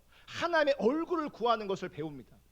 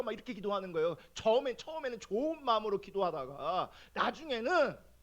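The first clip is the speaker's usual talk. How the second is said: ordinary talk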